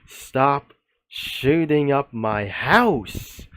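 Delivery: drawn out slow, each word spaced; the real line, slowly. Retold or imitated. Redoing the caller's line the way it really sounded, slow. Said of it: "trying to say the real thing".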